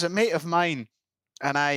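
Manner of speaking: lightly imitated Scottish islander; retelling in a Scottish voice; Scottish accent. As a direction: put on a local Islay accent. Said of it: "You don't have to do the accent".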